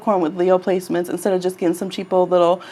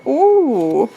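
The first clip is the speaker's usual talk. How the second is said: higher, playfully exaggerated "ooh"; hammed-up little huff of frustration; mock frustration; 4 semitones higher, slower than usual. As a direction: imitate a frustrated toddler, lightly. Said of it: "Now she does it".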